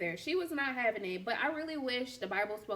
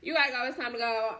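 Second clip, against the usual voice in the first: laughing king; 6 dB louder, faster than usual. Retold or imitated. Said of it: "He got pissed and was like".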